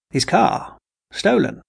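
high, disbelieving questions; a father caught off guard, pitch jumping up; the scientist hears his daughter's news and rises in alarm; startled. Acted.

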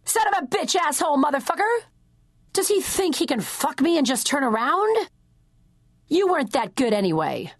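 high, fast angry muttering under the breath; furious muttering, high and quick; muttered curses. Acted. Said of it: "spew out the following under my breath".

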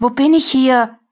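lost and scared, asking the empty room; a frightened captive whispering to herself; frightened question. Acted. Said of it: "Die Angst scheint mir ins Gesicht geschrieben".

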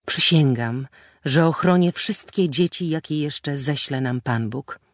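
firm, solemn vow; with force. A narrator's reading. Husband vowing to his wife, said with force. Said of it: "powiedział z mocą".

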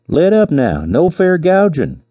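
high, drawn-out holler of protest; calling out in protest. A narrator's reading. Man pinned under a lion, calling out. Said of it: "He remembered calling out".

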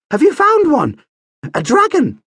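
high, loud and eager, almost squealing; excited prince. A narrator's reading. Young prince asks the professor, excited and eager. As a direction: burst out with the hope of a dragon.

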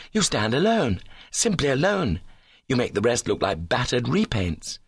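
lightly voiced gushing golfer; a hint of indignant adoration; adoring suitor. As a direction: pour out admiration with swooping pitch. Suitor gushes praise.

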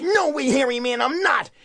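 put-on a boy refusing from the treetop; young Wally, stubborn and sure; defiant boy.

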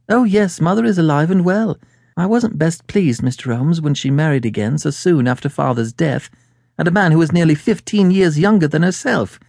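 a hint of a talkative woman client; chatty woman client. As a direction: confide family history as the lady client. Voices Mary in the story.

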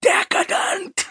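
very high, slow, drawn-out single word; Wilson pronouncing doom. Retold or imitated. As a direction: let it drop from above like a verdict. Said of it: "letting it fall on him from the plaster above".

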